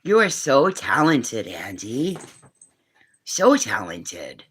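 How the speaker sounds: slow, drawn-out adoring words; praising little Andy, slow and tender; slow tender praise. Real, not acted. Praising a child.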